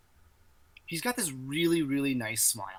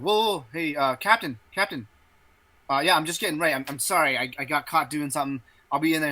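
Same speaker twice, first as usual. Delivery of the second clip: lightly acted, higher and louder excuses; flustered soldier; 4 semitones higher, 6 dB louder than usual. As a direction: stammer apologies to a superior. Caught soldier excuses himself to captain.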